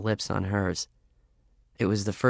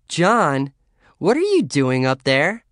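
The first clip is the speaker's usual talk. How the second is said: calling upstairs; 6 semitones higher, 5 dB louder, slower than usual. Acted. Calling up the stairs.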